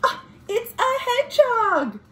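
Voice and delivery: high, delighted surprise; high surprised ah; surprised find. Acted. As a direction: reveal the hedgehog to the kids. Finding hedgehog under flap.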